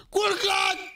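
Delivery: high shouted call; catchphrase yell. Real, not acted. (strigăt înalt)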